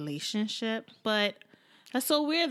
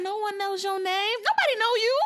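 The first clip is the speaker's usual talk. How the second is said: mock sassy; 10 semitones higher than usual. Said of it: "She's like".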